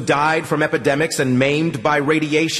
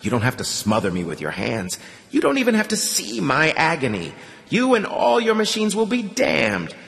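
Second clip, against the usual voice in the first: put-on old priest's swelling menacing rant; menacing, building; 6 semitones higher than usual. A narrator's reading. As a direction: build into a prophet's thunder. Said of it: "more convincing and menacing than the last".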